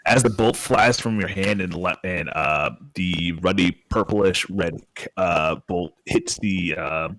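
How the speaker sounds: slow storytelling voice; game master narration. A narrator's reading. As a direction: paint the scene slowly.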